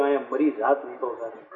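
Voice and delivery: fast, low, frightened rush; terrified nephew gasping after the vision; trembling fear. Retold or imitated. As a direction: blurt it out shaken with fear. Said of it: "ધ્રુજવા માંડ્યા".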